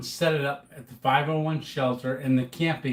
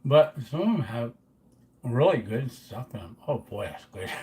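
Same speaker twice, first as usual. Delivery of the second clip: chewing noisily; 2 semitones lower than usual. Real, not acted. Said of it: "I'm eating in front of you".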